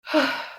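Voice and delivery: mock sigh of someone just woken; grumpy waking sigh. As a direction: heave a put-on grumpy sigh. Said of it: "wakes up grumpily".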